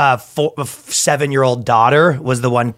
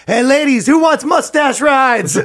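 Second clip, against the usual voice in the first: high, slow sleazy come-on; creepy sleazy come-on; 11 semitones higher, slower than usual. Pretend. Creepy pickup line acted.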